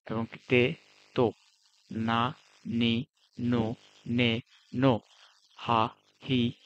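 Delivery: each syllable said slowly and distinctly, pausing between them; reciting kana rows. Shown as a demonstration. Teacher models hiragana pronunciation for students, slow and deliberate. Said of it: "এটা উচ্চারণ বললাম".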